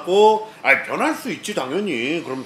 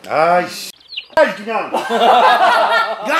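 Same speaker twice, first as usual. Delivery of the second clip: mock angry outburst, higher, rising to a loud yell; pretend fury; 5 semitones higher, 6 dB louder, much slower than usual. Streamer staging a blow-up for viewers, mock-angry yell. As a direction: put on a furious bark with a laugh in it. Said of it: "존나 빡친 척하면서".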